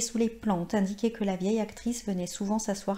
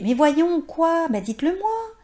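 plus haut et plus fort, insistant; il la presse de tout dire; supplication pressante; 9 semitones higher, 8 dB louder than usual. Acted. Il la supplie de parler. (le narrateur supplie la vieille dame, avec insistance)

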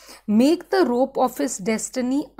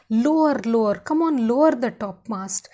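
urgent command; 4 dB louder than usual. Retold or imitated. Urging crew to lower topmast.

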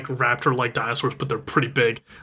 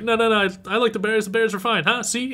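high-pitched imitated reassurance; hurried mock reassurance, pitched up; cheering someone up; 9 semitones higher than usual. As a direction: act a flustered dad soothing a crying child. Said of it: "Hart tries to, like, cheer him".

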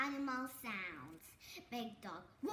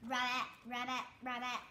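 frog croak; 4 semitones lower than usual. Shown as a demonstration.

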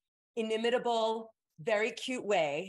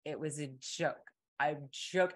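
like talking to a moron; 4 semitones lower than usual. Retold or imitated. Prankster to her gullible classmate, deadpan disdain. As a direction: let it drop, mock withering understatement. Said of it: "looks at me like I am a moron".

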